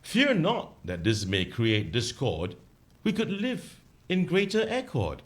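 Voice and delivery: slow recited verse; poem recital. Shown as a demonstration. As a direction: recite the ditty slowly. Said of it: "Okay, I'm gonna start now".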